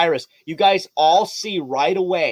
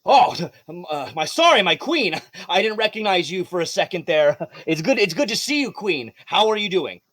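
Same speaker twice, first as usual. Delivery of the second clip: flustered apology; 3 semitones higher than usual. Acted. Guard flustered on seeing the queen.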